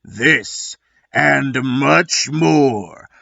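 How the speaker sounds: a hint of movie-trailer gravel; gravelly voice. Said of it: "let Gravelly Voice take it from here".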